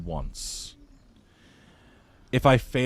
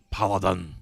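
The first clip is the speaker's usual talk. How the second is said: mock Scottish paladin. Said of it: "put some extra chutzpah on it".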